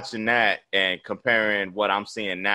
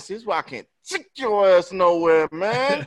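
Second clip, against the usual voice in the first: 1 mock scolding; 7 semitones higher than usual. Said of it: "I said".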